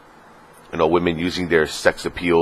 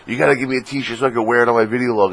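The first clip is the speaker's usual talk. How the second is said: higher, lightly put-on voice of a friend; imitated female friend; 6 semitones higher, faster than usual. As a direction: lightly mimic her asking a favor. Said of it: "and she was like".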